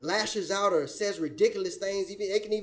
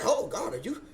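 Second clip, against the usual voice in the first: mock laughing; 4 semitones lower than usual. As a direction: laugh through a mocking question. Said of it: "And they just laugh".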